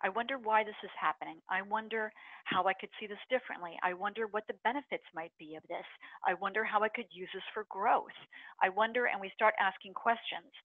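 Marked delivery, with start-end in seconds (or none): 0.0-9.0 soft musing wonder; calm self-reflection; curious and calm. Shown as a demonstration. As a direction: gently wonder aloud to yourself. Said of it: "Now we get into curiosity".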